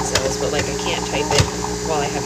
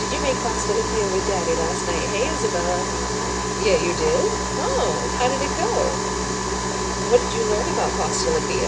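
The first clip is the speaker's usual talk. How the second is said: playful questions to an infant; 3 semitones higher, 4 dB louder than usual. Real, not acted. Questions her baby in baby talk.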